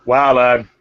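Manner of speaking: fast, stammering, indignant market woman; nervous seller talking fast and flustered; flustered turnip seller. Acted. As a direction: splutter out the denial, a touch offended.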